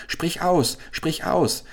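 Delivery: high, pressing urgent call; urgent cry. Acted. Caliph Chasid urges the owl to name her condition, high and urgent. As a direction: urge her to speak at once. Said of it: "schrie Chasid".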